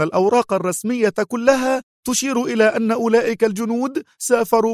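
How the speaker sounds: high, agitated woman's retort; edgy, irritable. A narrator's reading. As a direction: snap back defensively at high pitch. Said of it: "فتابعت بنفس العصبية".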